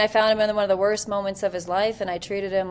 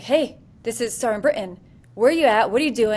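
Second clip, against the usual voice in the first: sharp, pushy demand on the phone; demanding, going off; 3 semitones higher, 5 dB louder than usual. Retold or imitated. Sergeant grilling the absent lead by phone, angry. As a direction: lay into him with rising heat. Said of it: "And I just go off".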